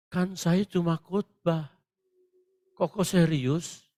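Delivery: slow, hesitant private complaint; mock daunted. Rattled preacher questions God, slow mock-nervous voice. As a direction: falter slowly, as if caught out by God. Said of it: "Saya keder juga".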